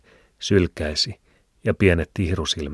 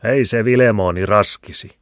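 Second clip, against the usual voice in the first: a touch higher, lightly voiced housewife; teasing woman; 5 semitones higher, 7 dB louder than usual. A narrator's reading. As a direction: tease him gently. Liena voiced in dialogue. (kevyesti esitetty emäntä)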